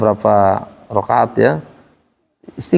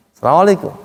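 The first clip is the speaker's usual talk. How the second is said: higher Arab-style salam, falling away; Arab greeting intonation; 4 semitones higher, faster than usual. Shown as a demonstration. Teacher repeats how Arabs greet, Arab intonation. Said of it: "orang Arab begituin".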